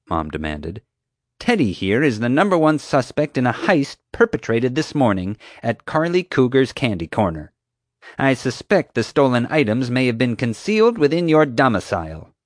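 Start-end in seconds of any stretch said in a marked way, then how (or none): 1.4-12.3 higher-pitched, officious accuser; self-important security guard. A narrator's reading. Guard accusing the boy of a candy heist, self-important. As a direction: lay out the charge with pompous emphasis.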